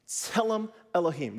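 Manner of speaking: "Tselem Elohim." with TSE stressed, ts sound at start; stress first syllable. Shown as a demonstration. Teacher models the Hebrew phrase for the class, clear. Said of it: "accent on the first syllable".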